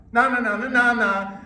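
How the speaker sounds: high, loud schoolyard taunt; sing-song jeer like a bratty eight year old; taunting child voice. Shown as a demonstration. Coach shows a child taunting another in the schoolyard. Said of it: "ugly and nasal".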